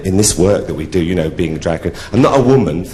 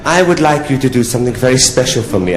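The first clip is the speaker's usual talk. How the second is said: little French count's put-on accent; 3 semitones higher than usual. French count asking a prostitute for something special, French accent. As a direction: make a request in mock French. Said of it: "he said to me in a French accent".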